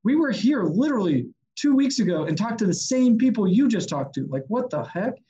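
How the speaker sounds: mock-incredulous protest; imitated shock. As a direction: act out stunned colleagues, lightly. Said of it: "they were just kinda shocked".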